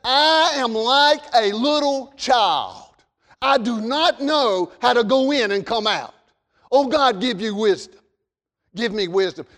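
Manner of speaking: put-on begging for wisdom like a little child; humble king's prayer. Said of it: "this king said".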